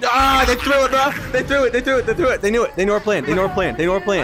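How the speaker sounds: frustrated shouting. Real, not acted. Frustrated outburst after goal.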